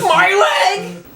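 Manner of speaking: high yelp through laughter; laughing cry. Real, not acted. Laughing so hard his leg hurts, high cry. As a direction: howl it while doubled over laughing.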